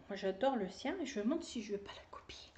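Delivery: quick conspiratorial whisper; whispered aside. Real, not acted. Knitter whispering a secret plan to viewers, hushed whisper. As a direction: let it slip as a secret, hushed. Confiding aside about copying her version.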